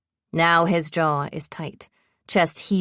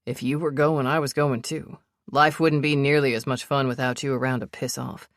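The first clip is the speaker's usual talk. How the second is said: a hint of a lower, steady man's voice, protective and teasing; lightly voiced Sebastian; 3 semitones lower than usual. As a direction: lower him just a touch, calm and sure of himself.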